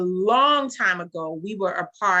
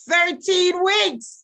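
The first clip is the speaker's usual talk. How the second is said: slow, much higher, louder emphasis; amazed exclamation; 11 semitones higher, 7 dB louder, much slower than usual. Real, not acted. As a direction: stretch it out in delighted disbelief. Boasting about chart run.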